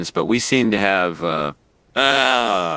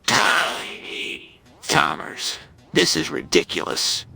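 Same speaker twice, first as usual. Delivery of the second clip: whispering; 4 semitones lower, 3 dB quieter, slower than usual. Acted. Shrunken Skinner speaks tiny.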